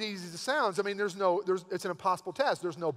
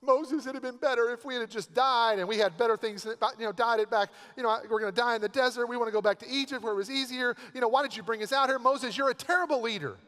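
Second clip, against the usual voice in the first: complaining Israelites, whiny and pleading; mock whining; 3 semitones higher than usual. Grumbling Israelites whining at Moses, a mild mock whine. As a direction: whine at Moses like a fed-up crowd. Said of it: "they start whining".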